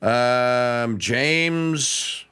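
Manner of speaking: usual speaking voice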